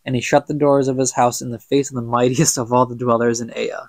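measured storybook reading, evenly told; story narration. A narrator's reading. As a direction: read it like an old legend. Reads the book aloud.

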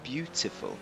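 "Beautiful" softly, with a true T. Shown as a demonstration. Player correcting viewers, crisp T in "Beautiful". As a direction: sound the T in "Beautiful", never a D. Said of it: "It's not a D".

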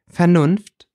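high, loud mock astonishment; feigned surprise. A narrator's reading. The stepmother mocks the boy's reason, feigning surprise. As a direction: act amazed, overdoing it. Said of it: "tat Patrician erstaunt".

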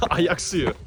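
Ayak suyu with a laugh. Real, not acted. Repeats laughing.

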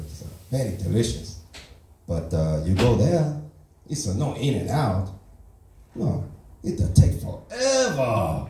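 put-on broken English in a light Asian accent; deadpan Asian-accent stand-up persona. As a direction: play the fresh immigrant with a mild Asian accent. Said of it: "that's not how I actually talk".

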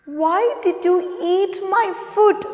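a hint of an upset cartoon cat; Tom asking. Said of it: "Tom is asking".

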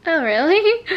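high, loud surprised gasp of a question; surprised owner hearing the vet's news; retold shock. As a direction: replay the moment it hit you. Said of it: "I was literally shocked".

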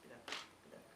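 hushed whisper; whispering while hiding. Real, not acted. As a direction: whisper so nobody hears. Quiet during the blindfold test. (fısıltıyla)

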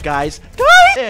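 alarmed high yell; urgent shout. Real, not acted. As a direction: gasp then very high, loud call. Gasp then calling team.

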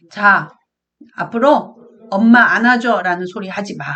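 loud, stern mock scolding; mother scolding. Mother scolds runaway daughter, loud mock scolding. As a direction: play the fed-up mother telling her daughter off.

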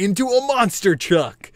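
said with an exclamation point; exclaimed. Shown as a demonstration. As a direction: punch it out with excitement. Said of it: "I used an exclamation point".

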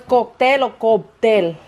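"cóctel" then "cóctel" with a p sound, koptel; slow, compare cóctel and cóptel; slowly weighing "cóctel" against "cóptel"; two pronunciations. Shown as a demonstration. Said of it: "¿Cómo se dice?".

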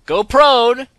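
high, loud yell of go prone; urgent yell to drop flat; shouted command. Real, not acted. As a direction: bark the order out. Repeats instruction, now shouted.

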